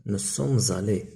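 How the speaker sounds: very slow, careful model phrase; slow model answer. Shown as a demonstration. Teacher drawing out the answer for pupils. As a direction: stretch each word for the class. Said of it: "إذا نقولو".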